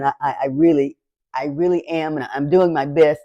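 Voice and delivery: fighting back tears as she speaks; choked up. Real, not acted. Speaking to her followers, close to tears. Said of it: "I'm feeling kind of emotional".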